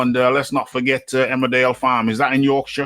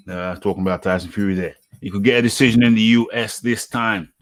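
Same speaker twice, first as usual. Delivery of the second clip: normal talking voice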